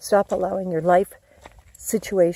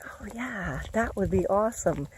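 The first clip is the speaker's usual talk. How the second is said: high, soft whispered oh yeah; a hushed, pleased oh yeah; whispered yes; 3 semitones higher, 5 dB quieter than usual. Pretend. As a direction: breathe it out as a grateful whisper. Mom answers son's offer.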